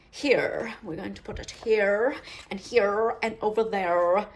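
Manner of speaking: Here said the way critics want, not the Australian way; mocking the critics' pronunciation. Shown as a demonstration. Crafter answering a comment, mock pronunciation of Here. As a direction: demonstrate Here as the critics would have it. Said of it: "pronounce it like this".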